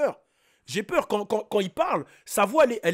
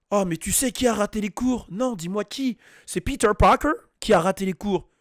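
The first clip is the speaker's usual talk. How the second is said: put-on French dialogue, English name in heavy accent; Canadian French dub accent. Dubbed students ask who missed class, Canadian dub accent. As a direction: switch hard into English for Peter Parker. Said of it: "ça met l'accent de ouf".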